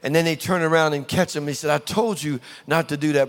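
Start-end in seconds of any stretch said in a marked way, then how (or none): 1.7-3.3 mild, even telling-off; nicely. Acted. Mother to child caught in the cereal, said nicely. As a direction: say the reproach nicely, without any edge. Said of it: "they don't say it as nicely".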